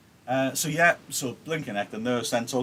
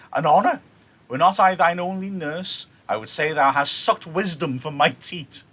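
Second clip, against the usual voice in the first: nurse reading; 4 semitones higher, 7 dB louder than usual. Acted.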